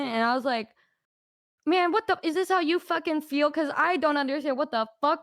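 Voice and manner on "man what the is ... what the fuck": higher, exasperated disbelief; mock bewilderment. Replaying a reply when roles reversed, exasperated bewilderment. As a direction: ask it baffled, pitch raised. Acted realisation to friend.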